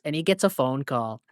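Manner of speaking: ordinary talk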